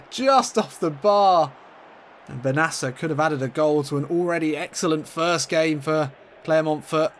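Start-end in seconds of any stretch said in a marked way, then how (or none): 0.1-1.5 excited. Real, not acted. After near miss.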